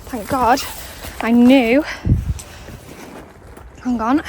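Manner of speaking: breathless after the climb; panting from the steps; out of breath. Real, not acted. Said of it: "And I'm out of breath".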